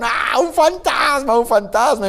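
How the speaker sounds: hammed-up high, drawn-out fright; mock scared yelling. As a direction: act out a panicked cry without much extra volume. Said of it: "empiezan a gritar". (grito de susto fingido y agudo)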